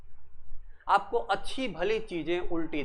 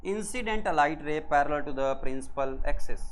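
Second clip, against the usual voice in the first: slow, word by word for notes; slow dictation; 3 semitones lower, much slower than usual. Shown as a demonstration. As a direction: dictate it slowly so students can write. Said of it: "क्या बोलेंगे?". (धीरे धीरे लिखवाना)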